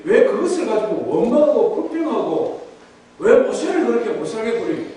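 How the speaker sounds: acted appeal to stop grumbling; earnest remonstrating. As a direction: reason with them in mild protest. Acted sibling defending Moses to crowd.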